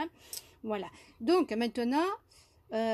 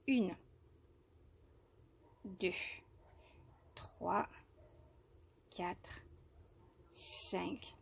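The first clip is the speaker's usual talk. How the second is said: soft whispered counting, much softer; murmured stitch count, much softer; counting under breath; 3 semitones lower, 10 dB quieter, much slower than usual. Real, not acted. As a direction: whisper the count to yourself while working.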